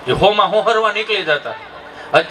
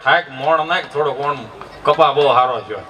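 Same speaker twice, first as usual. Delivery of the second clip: put-on deep, low old-timer voice; low-voiced elder at the wedding feast; village elder instructing; 9 semitones lower than usual. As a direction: order the cook about, pitched way down. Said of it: "કંદોઈને કહેતા જાય".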